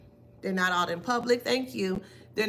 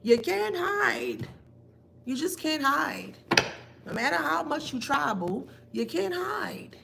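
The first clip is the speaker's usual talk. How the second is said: taunting; 6 semitones higher than usual. Acted. Reader calls out a karmic who tries to hide, taunting. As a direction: tease them with a high, stretched call.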